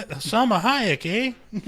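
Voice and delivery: mock Canadian.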